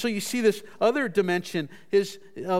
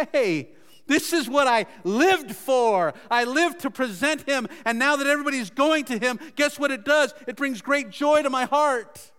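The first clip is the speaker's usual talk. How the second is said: higher, rejoicing voice as John; joyful; 4 semitones higher than usual. Acted. John declares his life's purpose fulfilled, joyfully. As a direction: proclaim fulfilled joy with a lifted pitch. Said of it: "My joy is now made complete".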